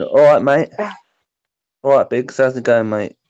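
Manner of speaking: British matey greeting, lightly put on; understated British lad greeting; playful British accent. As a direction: show off a casual British accent. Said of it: "you don't have it strong".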